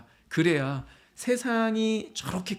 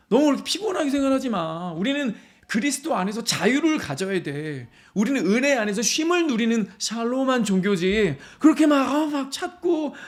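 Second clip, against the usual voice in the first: higher-pitched mock scolding from a critic; acted reproach; 3 semitones higher than usual. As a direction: complain at an over-zealous believer. Acting critics who reproach the believer.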